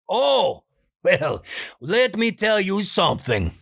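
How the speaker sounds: Juan voice. Pretend. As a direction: lean in to share a secret. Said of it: "I think I like".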